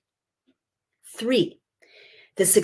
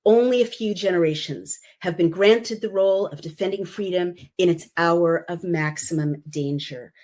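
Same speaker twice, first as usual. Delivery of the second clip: oratorical reading. Shown as a demonstration. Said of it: "listen to the music here, listen to the rhythm of the words".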